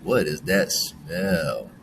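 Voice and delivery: slow and low what is that smell?, turned off by it; mild disgust. Shown as a demonstration. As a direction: wrinkle the nose at a bad smell. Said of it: "depends on how we're using it".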